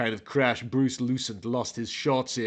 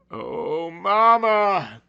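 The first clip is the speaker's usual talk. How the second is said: high, hammed-up sobbing plea, much higher; sad cry to Mama; 4 semitones higher, much slower than usual. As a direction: wail for Mama like a melodramatic boy. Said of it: "he thought sadly".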